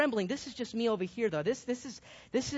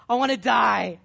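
a hammed-up despairing cry to God, louder toward the end; mock despairing plea; 5 dB louder than usual. Elijah begs God to end his life, hammed-up and growing louder. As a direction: beg God dramatically, building in volume.

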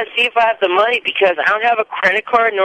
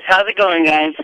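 over a landline phone. Real, not acted. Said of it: "Why do you sound different?".

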